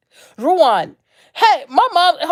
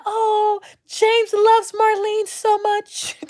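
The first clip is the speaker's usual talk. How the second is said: high, drawn-out syrupy gushing; mock gushing couple; 10 semitones higher, much slower than usual. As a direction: coo it in an exaggerated high, slow voice.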